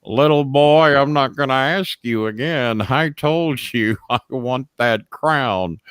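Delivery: slow, drawn-out threatening bully; slow heel threat; menacing taunt. Retold or imitated. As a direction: lean on each word, taunting. Funk repeats threat slowly.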